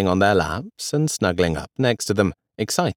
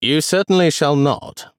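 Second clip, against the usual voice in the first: firm; 7 semitones higher, 4 dB louder than usual. A narrator's reading. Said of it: "replied Darcy firmly".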